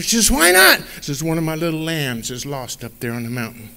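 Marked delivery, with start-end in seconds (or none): 0.3-0.8 higher and louder, questioning; a puzzled wife asks back; wife asking why not; wife's voice. Acted. 1.2-3.7 a worried shepherd explains; shepherd speaking low to his wife; shepherd's voice. Acted.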